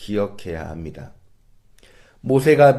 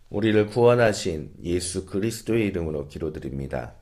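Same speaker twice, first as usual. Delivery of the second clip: closing prayer. Real, not acted. Pastor closing a sermon with prayer to God, measured and reverent. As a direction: pray aloud on the congregation's behalf, evenly.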